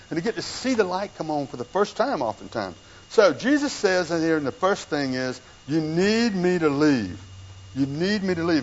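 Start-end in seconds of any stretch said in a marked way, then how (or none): 5.7-8.6 slow, deliberate weight on "need"; emphatic. Retold or imitated. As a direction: drive home "need" with a drawn-out, emphatic delivery. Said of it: "that's emphatic".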